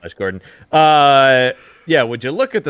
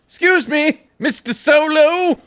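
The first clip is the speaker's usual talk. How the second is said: shrill-high, slow "Excuse me, Mister Solo!"; high mock polite voice; 5 dB louder than usual. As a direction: squeak it out like a prissy officer. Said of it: "calling him Mister feels so weird".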